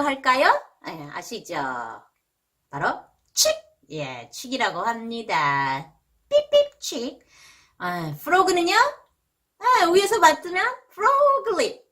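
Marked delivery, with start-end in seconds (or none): 6.3-7.2 mock chick peep. Shown as a demonstration. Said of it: "demo of chick peep".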